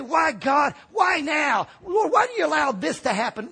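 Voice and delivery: imitating a despairing cry of why me; crying complaint to God. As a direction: act out someone wailing at God. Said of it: "Don't say".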